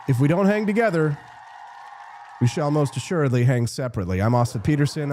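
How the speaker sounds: strained, hoarse, fading voice; losing his voice, pushing through. Real, not acted. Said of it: "I'm losing my voice".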